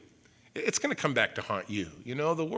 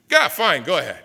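weary dad giving in; 3 semitones higher, 10 dB louder than usual. Retold or imitated.

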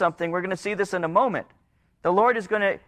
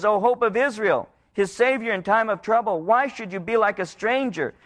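begging; 3 semitones higher than usual. Retold or imitated. People begging the Lord not to ignore them. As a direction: cry it out as a plea. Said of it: "a begging of the Lord".

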